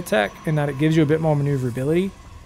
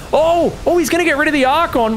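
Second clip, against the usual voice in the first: much higher, louder sudden excitement; excited caster; 11 semitones higher, 6 dB louder than usual. Real, not acted. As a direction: jump up as the fight turns. Caster reacting to a big play.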